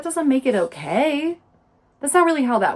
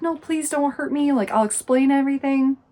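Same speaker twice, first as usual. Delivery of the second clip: high, acted frightened plea; scared pleading; 5 semitones higher, 4 dB louder than usual. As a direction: imitate someone flinching and begging. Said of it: "and she's scared".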